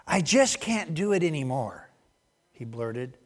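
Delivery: lively parable narration; storytelling. Acted. Preacher reading a silly farmer parable to the congregation, storytelling lilt. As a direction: spin the farmer tale with relish.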